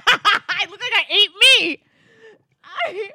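laughing through the words; words breaking into laughter. Real, not acted. Laughing at own photo.

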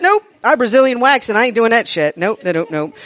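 loud, quick, laughing flat refusal; playful hammed-up nope; mock refusal. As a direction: voice the horrified room saying no way. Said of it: "Everybody in here's like".

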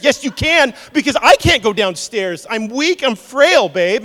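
high, loud mock frailty; husband pretends he is too frail; hammed-up weakling. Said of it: "What are we gonna do?".

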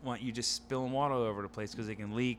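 soft, gently explaining apology; retold soothing words to a sulking child; apologetic dad. Dad apologising to daughter after bath scolding, softly contrite.

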